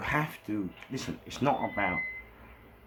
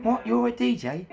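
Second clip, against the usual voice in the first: high-pitched outraged rant; absolutely mad; 11 semitones higher, 4 dB louder than usual. Retold or imitated. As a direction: rage at him, voice pitched right up. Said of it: "I went absolutely mad".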